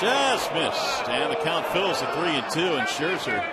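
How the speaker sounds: live announcer leaning into a full count; excited call. Real, not acted.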